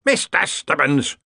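a contained bellow, stretched out slowly; mock bellow. A narrator's reading. Ridcully calls Stubbins from the bog, bellowing. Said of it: "Ridcully bellowed".

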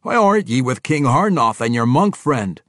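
loud, high dwarf voice; a dwarf king bantering with an old friend; gruff dwarf king. Acted. Bruner answering Athrogate, loud and hearty.

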